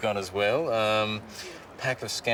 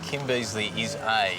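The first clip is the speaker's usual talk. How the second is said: slow; slower than usual. Shown as a demonstration. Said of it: "can I suggest you start it with".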